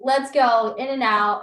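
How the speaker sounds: loud, high rallying call; gung-ho patient. Pretend. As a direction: play a patient raring to get it done. Acts out eager labor patient.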